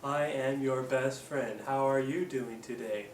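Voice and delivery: slow, even robotic monotone; slow mechanical robot voice. Shown as a demonstration. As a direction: say it stiff like a robot. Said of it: "gonna look like a robot".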